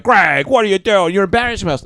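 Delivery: hammed-up group scolding; embarrassed friends. Partygoers scolding Greg at the party, mock reproach. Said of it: "everyone was like".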